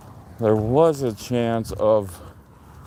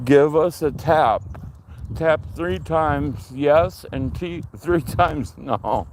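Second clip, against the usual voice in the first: ghost hunter; 4 semitones higher than usual. Pretend. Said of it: "Like Ghost Adventures".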